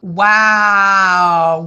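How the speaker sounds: a big amazed wow; loud wow. Real, not acted. Host to kids, amazed the fish keeps growing. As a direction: let the amazement burst out.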